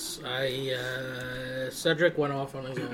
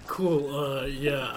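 out of breath, laughing; 2 semitones higher, 5 dB louder, much slower than usual. Real, not acted. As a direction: push the words out after a laughing fit. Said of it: "You're still out of breath from the climb".

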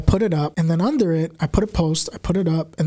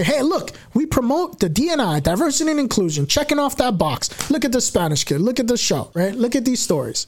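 higher, mock-cheery tokenism pitch; mocking corporate voice; 5 semitones higher than usual. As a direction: parody the station bragging. Mocking station's token talk.

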